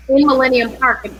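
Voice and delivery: usual speaking voice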